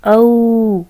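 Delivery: loud, clear औ for the class; model sound औ. Shown as a demonstration. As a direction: say औ for the class to copy. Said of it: "क्या उच्चारण होगा उसका?". (ज़ोर से "औ" बोलकर दिखाना)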